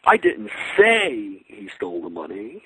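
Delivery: slow down and lean on say; stress on say. Shown as a demonstration. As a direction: say drawn out slowly with a rise. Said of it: "the same sentence six different ways".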